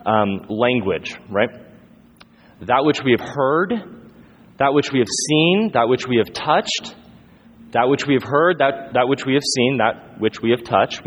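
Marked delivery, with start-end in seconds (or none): 2.6-11.1 measured emphatic recitation, each phrase set apart; emphatic repetition. Retold or imitated. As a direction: drive home "heard", "seen", "touched" at each phrase end. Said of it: "John is very emphatic here".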